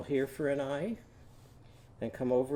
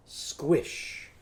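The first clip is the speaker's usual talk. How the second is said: "Squish" whispered more softly; softer whisper. Shown as a demonstration. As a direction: hush "Squish" quietly. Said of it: "It's just gonna be a what?".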